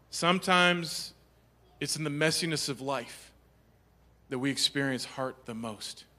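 soft preaching. Real, not acted. Sermon point, hushed.

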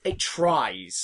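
"tries" leaned on, falling at the end; "tries" stressed as a qualified concession. Real, not acted. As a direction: put the weight on "tries". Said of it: "Emphasis on tries".

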